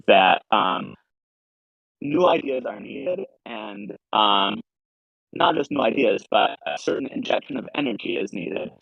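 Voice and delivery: glitchy robotic audio. Real, not acted. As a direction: voice garbled like a broken mic. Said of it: "your voice is robotic".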